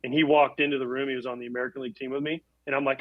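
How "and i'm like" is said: normal talking voice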